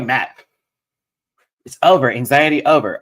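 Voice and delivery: high, shaky, nervous self-talk; wobbly high voice, calming yourself down; shaky nervous falsetto. Real, not acted. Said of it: "I can hear my voice shaking".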